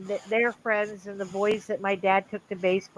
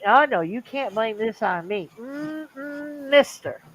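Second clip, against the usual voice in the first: sassy refusal; 4 semitones higher, slower than usual. Retold or imitated. Repeats the sass.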